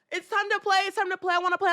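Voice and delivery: high-pitched imitation of a little boy; pleading toddler. Two-year-old begging nanny to play, high mock child voice. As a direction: beg in a put-on small child's voice.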